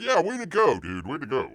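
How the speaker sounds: sarcastic cheer that sinks at the end. Real, not acted. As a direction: fake praise dripping with scorn. Sarcastic praise of actor.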